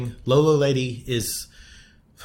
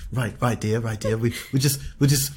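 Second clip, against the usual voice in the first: posh British husband. Retold or imitated. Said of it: "they're so British".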